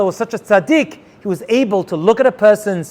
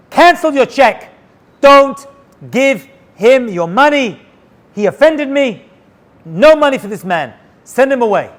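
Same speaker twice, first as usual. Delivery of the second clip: higher, pointed angry command; angry retold order; 5 semitones higher, 4 dB louder than usual. President phoning his cousin to cancel the donation, angry. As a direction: bark it like an offended man cutting someone off.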